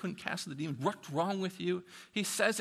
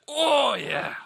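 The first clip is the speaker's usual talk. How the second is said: loud, high cry of approval; excited shout; 8 semitones higher, 10 dB louder than usual. Real, not acted. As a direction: shout the congregation's yes. Preacher exclaims.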